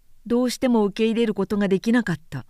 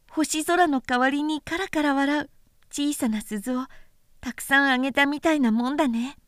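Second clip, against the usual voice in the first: put-on a lightly higher boyish voice, tender and earnest; little prince voice; 5 semitones higher than usual. Small prince consoling the pilot, lightly higher boyish voice. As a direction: speak like a small boy comforting a friend.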